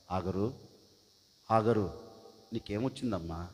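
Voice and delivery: soft, low, tender call to Hagar; gentle voice of God. Acted. God comforting weeping Hagar in the desert, soft and tender. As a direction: coax her softly by name. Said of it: "చాలా చక్కగా మాట్లాడుతూ ఉన్నాడు".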